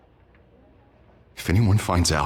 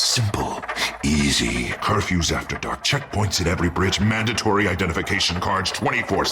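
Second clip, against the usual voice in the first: sinister alter ego. Acted. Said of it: "You're acting strange, Harvey".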